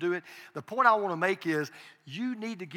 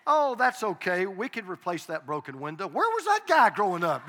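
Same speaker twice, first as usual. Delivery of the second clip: mock grandpa voice. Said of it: "You know, and".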